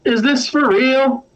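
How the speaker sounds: high-pitched, half-hearted yell; mock heckler's yell. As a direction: call up to the stage without much volume. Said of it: "hobgoblins in the front row yells up".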